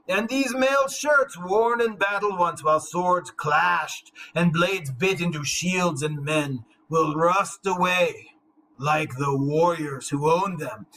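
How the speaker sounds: slow, mournful elegy voice, drawn out; last survivor's lament. Acted. The last survivor mourning his dead race, slow lament. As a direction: grieve for a lost people, slowly. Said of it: "this is what he has to say".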